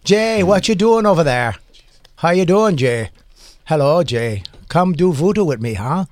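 loose Irish-Jamaican lilt; playful mock Irish-Jamaican; Irish-Jamaican accent. Shown as a demonstration. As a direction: greet him in a muddled Irish-Jamaican accent. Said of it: "You know Jamaican and Irish, same accent?".

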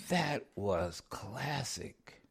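slow, low distinguished voice; lightly imitating a distinguished narrator; LeVar Burton voice. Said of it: "he has this distinct, di-, very distinguished voice".

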